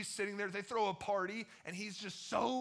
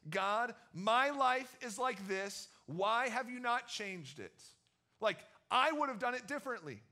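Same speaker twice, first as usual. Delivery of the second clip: prideful complaint to God; 5 semitones higher, 7 dB louder than usual. Retold or imitated. Proud heart protesting to God, higher and louder. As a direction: complain to God like you're owed. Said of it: "His pride is saying this".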